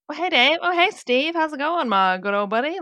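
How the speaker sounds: hammed-up small-town friendliness; mock chummy greeting. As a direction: greet the police like old pals, mockingly. Mimics townsfolk greeting police as pals.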